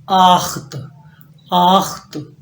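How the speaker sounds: आख्त with a throaty kh; German acht. Shown as a demonstration. Teacher models German eight, throaty kh. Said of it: "next आपके पास nine".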